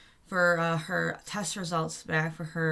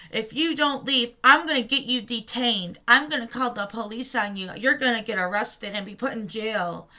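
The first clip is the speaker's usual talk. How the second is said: mock threatening guard, raised pitch; retold threat; 4 semitones higher, 4 dB louder than usual. Security guard threatening protester with police, mock threatening. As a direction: imitate an officious threat.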